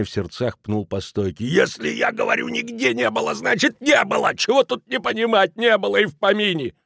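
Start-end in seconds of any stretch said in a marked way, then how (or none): 1.5-6.7 put-on much higher, strained drunk rage; drunken fury. A narrator's reading. Kelemen, beside himself, kicking the bar, enraged. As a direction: shriek it, beside yourself. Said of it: "доведённый до белого коленя".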